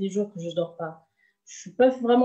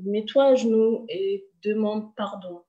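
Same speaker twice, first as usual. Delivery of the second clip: displeased command; 4 dB louder than usual. Retold or imitated. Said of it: "une voix qui était pas très contente".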